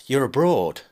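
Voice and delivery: a frightened husband gasping down the phone; husband in a panic calls his ex-wife, gaspy and raspy; gaspy distorted husband. Acted.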